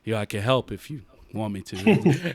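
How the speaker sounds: low, soft innocent reply; meek reply. Retold or imitated. Worker calmly answers the caller's threats, low and soft. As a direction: play it small and harmless to the angry caller. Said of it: "I'm like".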